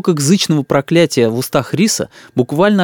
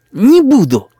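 put-on slow, higher sulky child; stubborn boy; 10 semitones higher, 4 dB louder, slower than usual. A narrator's reading. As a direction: dig in like a spoiled kid. Boy refuses. (упрямый мальчишка)

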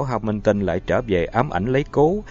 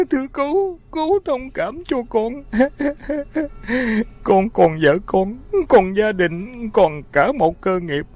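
sobbing; 11 semitones higher than usual. A narrator's reading. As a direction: beg through tears. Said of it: "Terry lại hòa lên khóc nức nở".

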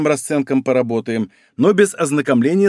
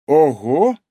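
delighted. Acted. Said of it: "восхитился он".

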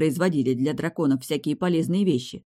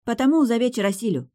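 higher, confident, breezy reply with a smile; smiling; 6 semitones higher than usual. A narrator's reading. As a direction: brush it off with a smile. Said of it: "с улыбкой отозвалась я".

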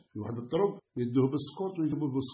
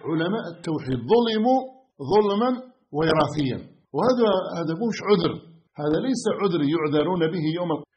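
loud, rising sermon warning; fervent pulpit voice; fiery preaching; 3 semitones higher, 8 dB louder than usual. Acted. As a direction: thunder at the congregation as a preacher. Preaching at full force.

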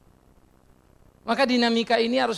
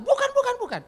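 first bukan much higher, then falling; emphatic no. Real, not acted. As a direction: deny firmly, bukan bukan bukan. Emphatic denial. (bukan diulang tegas, yang pertama jauh lebih tinggi)

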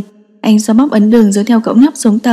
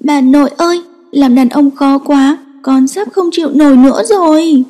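put-on a small boy on the edge of tears; cậu bé nghẹn ngào, giọng cao và chậm; choked-up child; 4 semitones higher than usual. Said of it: "bắt đầu nghẹn ngào".

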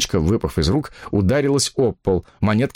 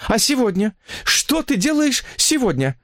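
desperate; 14 semitones higher than usual. Acted. Mistress asking her lover about today, desperate. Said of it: "с отчаянием спросила она".

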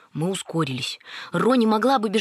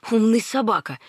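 ordinary delivery, nothing marked

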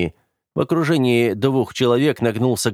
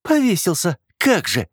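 higher, mocking echo of «Повесился»; 11 semitones higher than usual. Sister mocking her brother's words, sneering. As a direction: toss his word back with a sneer. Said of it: "насмешливо проговорила она".

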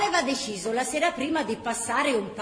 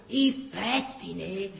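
slow, disgusted repetition; a hint of a mouth twisted in disgust; aunt echoing the boy's words in disgust; 2 semitones higher, 6 dB louder, much slower than usual. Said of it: "verciava la zia con la bocca schifata".

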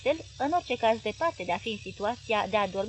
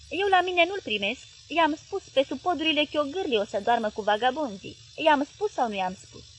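loud, higher, gruff husband ranting; angry Paraschiv; 5 semitones higher, 5 dB louder than usual. Acted. Husband grumbling to his wife, loud and angry. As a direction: boom it out like a sulky husband.

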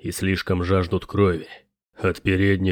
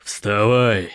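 barked order like a sergeant; shouted order; 2 semitones higher than usual. Acted. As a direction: yell it like a drill sergeant. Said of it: "заорал Снори".

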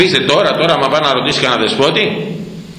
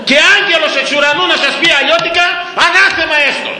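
solemn anathema. Real, not acted. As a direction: pronounce the curse with full conviction. Solemn anathema at full force. (υψηλή, δυνατή επίσημη κατάρα)

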